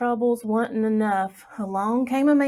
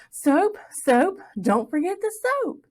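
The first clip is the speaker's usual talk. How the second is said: proud shout; 8 semitones higher than usual. A narrator's reading. Plug shouting to his mama as he runs home. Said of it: "shouting it to his mama".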